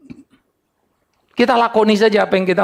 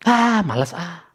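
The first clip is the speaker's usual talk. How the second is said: slow, lazy grumble of reluctance; 3 dB quieter, slower than usual. Acted. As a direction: act out not feeling like it, slowly. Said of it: "Malas, rajin". (malas-malasan, lambat)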